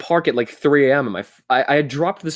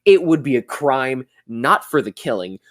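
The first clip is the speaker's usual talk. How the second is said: put-on skater kid voice. Mocking his own silly voice, lightly put on. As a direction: lightly play a cheesy teen commercial kid. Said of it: "my Skater Kid ninety commercials voice".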